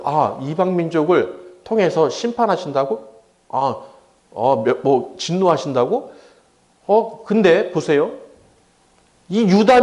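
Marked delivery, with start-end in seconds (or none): 0.1-6.1 "통해서" lifted into a rising, disbelieving question; surprised echo. Retold or imitated. Habakkuk echoing God's answer, incredulous rise. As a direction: repeat God's words back in mild shock. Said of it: "답을 들었어요".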